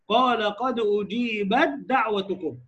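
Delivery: أجيبت دعوتكم slow, تاء merged into دال; slow recitation. Shown as a demonstration. Teacher demonstrating example verse, slow. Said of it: "أنت تبص كده،".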